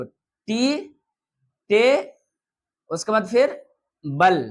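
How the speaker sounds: टे, then बल, each syllable said apart; split into syllables. Shown as a demonstration. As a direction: break टेबल into टे and बल. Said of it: "तो टेबल".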